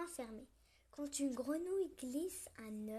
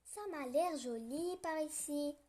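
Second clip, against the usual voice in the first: cheerful; 3 semitones higher, 5 dB louder than usual. Acted. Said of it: "lance-t-il enjoué".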